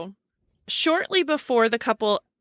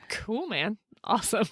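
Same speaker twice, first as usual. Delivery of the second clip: deadpan; 6 dB quieter than usual. Retold or imitated. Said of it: "She's like".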